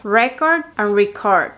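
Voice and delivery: record then record, stress moved from REcord to reCORD; slow, careful contrast of the two stresses. Shown as a demonstration. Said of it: "vamos a empezar con estas dos palabras". (contraste de acento en record)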